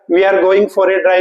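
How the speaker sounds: very slow, word by word; slow sentence read. Shown as a demonstration. Rereading slowly. (वाक्य बहुत धीरे पढ़ना)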